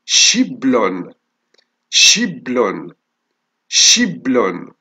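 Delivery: شبل drawn out very slowly after blending; slow dictation. Shown as a demonstration. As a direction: say شبل slowly, each sound held. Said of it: "لون".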